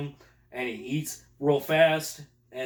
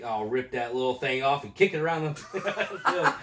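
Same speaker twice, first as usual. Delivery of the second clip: laughing through quote. Retold or imitated. Laughing while quoting the sergeant's threat.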